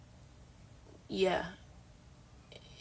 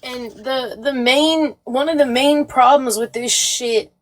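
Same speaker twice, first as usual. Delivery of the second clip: upset, loud and strained with long pauses; real distress, voice raised, halting; emotional; 2 semitones higher, 8 dB louder than usual. Real, not acted. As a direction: struggle to get it out, overwhelmed. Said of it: "I'm so emotional".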